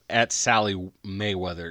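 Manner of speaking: "Sally Mayweather" said slowly and deliberately. Real, not acted. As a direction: slowly spell out "Mayweather" like a tipsy man. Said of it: "I've been drinking excessively".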